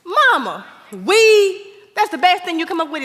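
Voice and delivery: can't believe what she just heard; incredulous. Acted. Daughter reacts to mother's game-show answer, loud disbelief.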